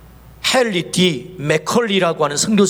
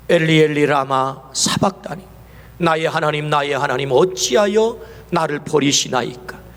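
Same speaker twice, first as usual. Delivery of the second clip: anguished cry; 5 semitones lower than usual. Retold or imitated. Jesus' cry on the cross.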